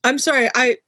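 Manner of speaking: coughing, choking on pepper. Real, not acted. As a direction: talk while choking on pepper. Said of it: "I'm choking on pepper".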